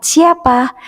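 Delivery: "Siapa?" pitched high then falling; question tune. Shown as a demonstration. Teacher models the question word for pupils, high asking tune. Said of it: "dibaca dengan intonasi yang tepat".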